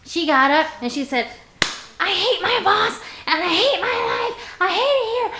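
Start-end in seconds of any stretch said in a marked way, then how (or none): 2.0-5.3 higher, half-hearted imitation of a girl breaking into tears; mock crying complaint. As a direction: whine it out like an upset employee, lightly. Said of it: "started crying".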